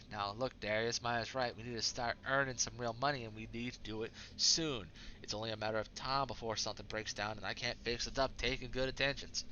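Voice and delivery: put-on a light Southern accent. Crew member urging Darius to earn money, light Southern accent. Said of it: "I gave Yang a southern accent".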